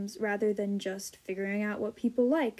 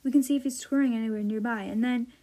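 put-on lively read-aloud of a children's novel; animated storybook reading; story reading. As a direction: read the passage to young listeners, voicing the dialogue. Reads passage aloud to viewers.

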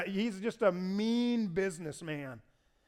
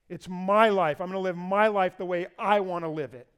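my punched each time; self-willed emphasis on my; stress on my; 4 dB louder than usual. Acted. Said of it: "that word we read".

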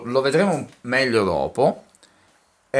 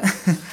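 a quick real sneeze; sudden sneeze burst; sneezing; 7 semitones higher than usual. Real, not acted.

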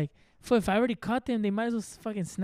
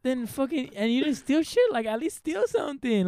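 higher-pitched mock indignation; retold annoyance; 4 semitones higher than usual. Man retelling his gripe at car thieves who stole nothing, mildly indignant. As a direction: complain as if pissed off at thieves, retold. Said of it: "that shit pissed me off more".

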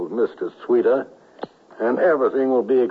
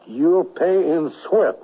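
menacing threat; 3 semitones higher, slower than usual. Acted. Villain threatens the colonel.

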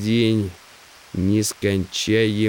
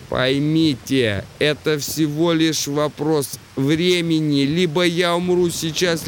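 raised, high-pitched voice of a deafened man; 6 semitones higher than usual. Acted. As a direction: speak up over your own deafness. Deaf Simmons resigned.

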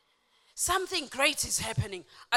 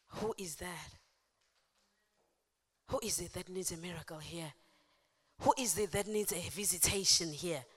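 hushed questioning; 3 semitones lower, 5 dB quieter than usual. Acted. Jesus stopping to ask who called, hushed questioning. Jesus stops and asks softly.

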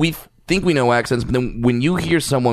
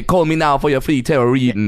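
lightly exaggerated Jamaican accent; Miss Cleo. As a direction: fake Jamaican psychic pitch. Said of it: "do the fake Miss Cleo".

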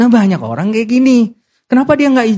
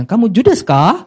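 "Kamu judes kah?" in a playful Japanese accent, slow; light mock Japanese accent; 4 semitones higher, slower than usual. Shown as a demonstration. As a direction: ask it like a Japanese speaker, slowly. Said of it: "pakai logat itu dong, logat Jepang".

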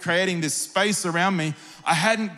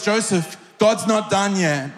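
raised, ringing preacher's cry with a laugh; preached shout; 3 semitones higher, slower than usual. Acted. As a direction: call it out over the congregation. Jesus's words, preached with a shout.

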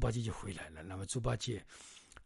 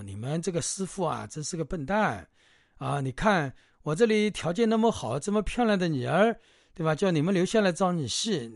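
higher, louder persuading woman's voice, lightly voiced; hostess coaxing; 5 semitones higher, 8 dB louder than usual. Hostess urging Bajie to marry in, lightly voiced coaxing. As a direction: coax him to stay as son-in-law.

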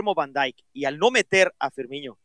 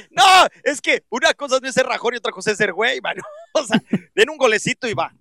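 words broken by real laughter; laughing while talking; 4 semitones higher than usual. Real, not acted. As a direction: laugh your way through the line. Laughs through teasing over bet.

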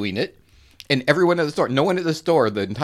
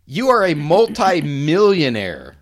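retold disbelief; 4 semitones higher, slower than usual. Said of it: "And I'm like".

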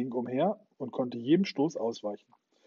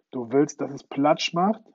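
angry captain; 2 semitones higher, 7 dB louder than usual. Acted. Hook furious at Smee.

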